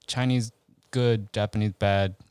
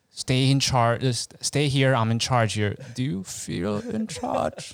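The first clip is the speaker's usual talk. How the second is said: Bane quote; slower than usual. Retold or imitated. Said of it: "Bane quote?".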